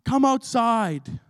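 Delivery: mock furious shout at the door; mock angry demand. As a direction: call her out like a furious mother. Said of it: "she whacked on the door".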